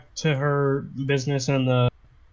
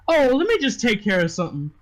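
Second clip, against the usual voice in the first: lightly voiced madam, higher and quick; brothel owner; 6 semitones higher, faster than usual. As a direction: brush it off quickly as the house's owner. Game master voices brothel owner.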